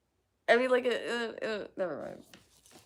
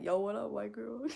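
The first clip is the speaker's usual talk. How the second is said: nineties movie voice; 3 semitones higher than usual. Retold or imitated. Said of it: "something I would hear in ... a nineties movie".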